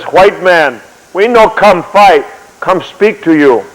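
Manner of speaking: slow, halting interpreter's delivery; acted interpreter, spacing out each word slowly; Indian interpreter. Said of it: "Interpreter says".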